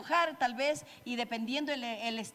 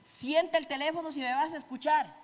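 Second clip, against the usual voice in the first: a bit higher, clipped order; curt demand; 3 semitones higher than usual. Retold or imitated. Spouse ordering partner off the phone, curt demand. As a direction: snap out the command. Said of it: "es diferente decirle".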